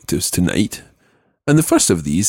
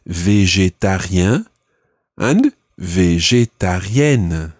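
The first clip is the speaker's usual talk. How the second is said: slow model word; slower than usual. Shown as a demonstration. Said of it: "exactly the same happens".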